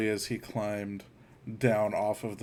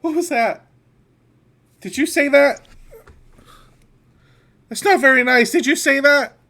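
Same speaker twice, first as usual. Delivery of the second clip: much higher, loud, startled questioning; startled kid character; 15 dB louder than usual. Acted. Character asks a companion about a strange voice, startled and loud. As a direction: cry out high and indignant at what you just heard.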